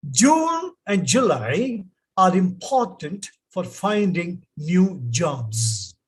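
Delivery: a careful model reading; read aloud. Shown as a demonstration. Teacher reads the sentence to class, slow and clear. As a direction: read "June and July" slowly, as a model. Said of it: "I'll read these sentences for you".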